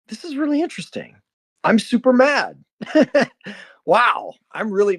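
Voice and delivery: high, quick mock-cheerful self-talk; a self-amused inner voice; playful self-talk. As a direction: laugh off your own anger lightly. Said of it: "batted my ego down like a playful cat".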